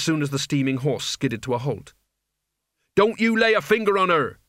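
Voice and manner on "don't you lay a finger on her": high, forceful yell; angry defensive cry; screamed threat. A narrator's reading. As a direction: shout a furious warning, pitched up. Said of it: "he screamed".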